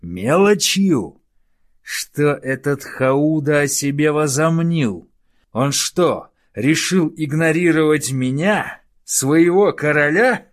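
high, loud indignant shouting; outraged. Acted. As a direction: explode with wounded pride. King outraged at advisor. (возмущённый крик)

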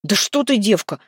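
high outraged cry; scandalized protest; young man shocked by a lewd riddle. A narrator's reading. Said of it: "возмутился Гвидон".

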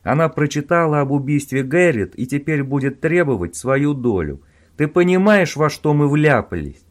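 loud, exasperated rant; heated scolding. Acted. Owen warning Robin about Sheila, heated and loud. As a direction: scold him, worked up.

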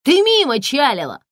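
high, loud thug shout; angry yell. A narrator's reading. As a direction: keep yelling her off. Thug yells at woman. (гопник орёт на Тонечку, грубо)

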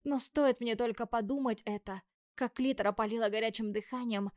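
ordinary delivery

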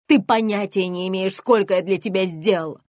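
loud furious yell at the daughter. Acted. Mother screaming at her daughter during a fight. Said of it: "а потом заорала".

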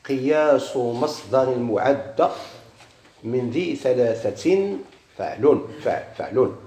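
slow measured recitation of a grammar verse; reciting verse. Shown as a demonstration. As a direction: draw each word out slowly as in a chanted poem. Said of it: "قال المصنف".

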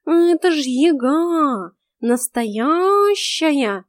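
high, very slow cat voice pressing the point; cat defending his claim, drawn out; talking cat insisting, high and slow; insistent cat. A narrator's reading.

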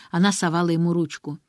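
ordinary delivery

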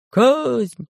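demanding. A narrator's reading. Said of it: "требовали жрецы".

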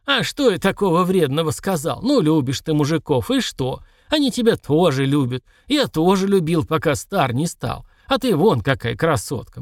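put-on grumbling old man; old prospector. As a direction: mutter like an old codger. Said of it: "бурча".

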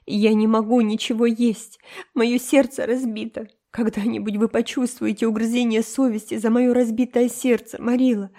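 put-on high, melodramatic tearful girl; tearful, tragic. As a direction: play the heartbroken martyr. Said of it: "сказала Энн рыдающим голосом". (Энн трагически, со слезами в голосе)

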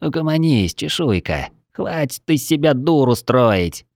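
gurgling fish-creature voice, cutting her off; fish man. Acted. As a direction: bubble the words like a fish man. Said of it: "булькающим голосом оборвала ящерицу Мурлок".

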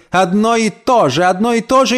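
high, sneering singsong; mocking repetition. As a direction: mimic her scornfully. (насмешливо и высоко: «одно и то же»)

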